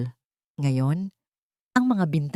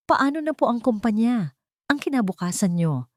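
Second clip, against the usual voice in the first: a higher, anxious question full of concern; worried; 6 semitones higher than usual. A narrator's reading. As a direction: ask him gently, worried for him. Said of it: "Ang boses ay puno ng pag-aalala".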